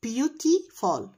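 syllable by syllable, very slow; sounding out words. Shown as a demonstration. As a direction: stretch every syllable apart. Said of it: "Syllables يعني مقاطع صوتية".

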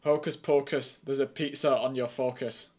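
lightly put-on Scottish accent, hammed-up; mock Scottish accent, half-hearted; bad Scottish accent. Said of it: "this is a very bad Scottish accent".

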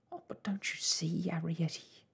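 high, breathy motherly appeal; gasped. A narrator's reading. Mother implores daughter to understand, gasping. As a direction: gasp it out in distress. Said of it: "gasped Homily".

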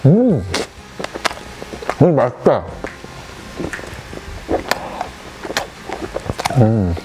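chewing while talking; talking through mouthful of bread; mouth full. Real, not acted. Seen 3: Cheeks full, jaw chewing, bun pieces in both hands throughout.

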